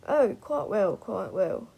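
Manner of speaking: put-on eager drunk old man; enthusiastic. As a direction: gush it eagerly. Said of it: "nodded enthusiastically".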